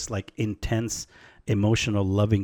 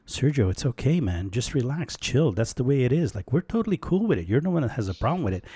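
higher, laid-back voice of the trees, speeding up near the end; chill trees; 4 semitones higher, faster than usual. Retold or imitated. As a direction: play the trees as totally unbothered and calming. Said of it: "and they're going".

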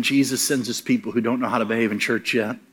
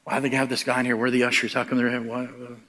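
hushed, much softer gossip; whispering; 7 dB quieter than usual. Retold or imitated. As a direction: murmur it so nobody hears. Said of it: "they're whispering to each other".

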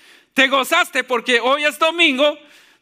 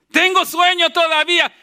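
slightly hammed-up excuse, pitched higher; mock excuse; 5 semitones higher than usual. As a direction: act out a reluctant churchgoer's protest. Preacher acts out congregants' excuses. (excusa fingida, en tono más agudo)

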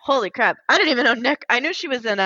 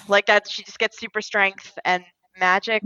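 ordinary talk

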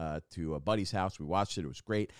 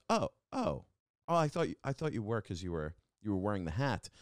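imitating stranger. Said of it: "he goes".

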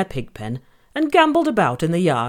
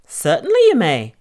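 woodcutter voice; 2 semitones higher, 4 dB louder than usual. Acted. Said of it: "he replied".

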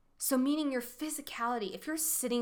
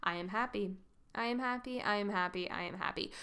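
lifeless affirmation; 3 dB quieter, faster than usual. Shown as a demonstration. Coach showing listeners an unconvincing affirmation, lifeless. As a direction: recite it softly with nothing behind it. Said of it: "really just saying".

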